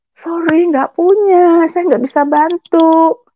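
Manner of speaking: imitating someone turning down a plea; acted refusal. Acted refusal by the foreign woman.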